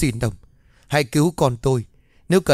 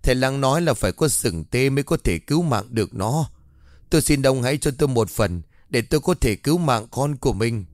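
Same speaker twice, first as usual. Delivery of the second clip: wailing plea. Acted. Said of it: "liền gào lên van xin".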